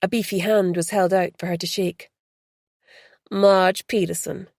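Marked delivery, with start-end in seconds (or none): 3.3-4.5 southern drawl. Acted. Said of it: "she said in a southern drawl".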